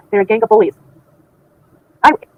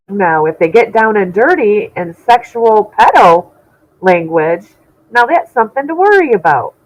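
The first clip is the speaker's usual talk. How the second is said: very slow, stretched words of revulsion; drawn-out disgust; much slower than usual. Real, not acted. Telling viewers what is truly gross, slow disgusted drawl. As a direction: drag every word out like it tastes bad. Dragging out disgust at dirty talk.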